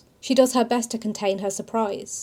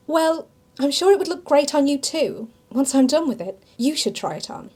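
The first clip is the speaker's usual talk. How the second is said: a touch of tart sarcasm; sniping retort; 4 semitones higher than usual. Acted. Amelia answering Silas's teasing, mildly snippy. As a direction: shoot back with light sarcasm. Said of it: "she snipes".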